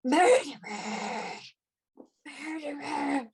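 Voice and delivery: drawn-out, slow anguished cry of a ghost; ghostly cry. Acted. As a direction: wail it out slowly, like a spirit seeking justice. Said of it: "another voice within you, uh, that cries out".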